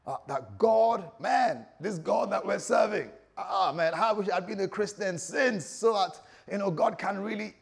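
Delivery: high, loud, gushing amazement; excited churchgoer. Acted. Churchgoer fired up about the God they serve, excited. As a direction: act out a supercharged new believer. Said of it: "you're excited".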